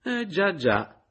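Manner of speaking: high, loud disbelieving agreement; incredulous. A narrator's reading. Caporale doubting Meis's denial, high incredulous scoff. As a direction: sound unconvinced. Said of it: "fece la caporale incredula".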